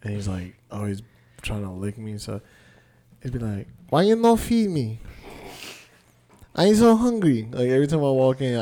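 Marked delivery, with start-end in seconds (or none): 3.9-7.5 higher, louder complaining dog in a mock Asian accent. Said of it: "like an Asian dog".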